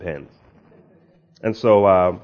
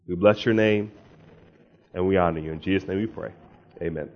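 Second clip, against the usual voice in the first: public prayer; 4 semitones higher than usual. Real, not acted. Preacher asking God's Spirit to rest on the congregation, public prayer. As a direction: pray aloud for the congregation.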